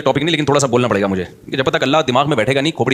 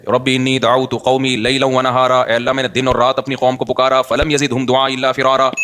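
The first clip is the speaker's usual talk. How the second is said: slow, level-pitched Arabic recitation; steady recital from memory; Quran recitation; 2 semitones lower, slower than usual. Real, not acted. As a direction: recite the verse in measured, drawn-out Arabic.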